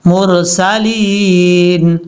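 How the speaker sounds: मुरसलीन with a full, heavy ra. Shown as a demonstration. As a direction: round the र in मुरसलीन. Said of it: "रा पुर पढ़ा जाता है". (मुरसलीन में रा पुर पढ़ें)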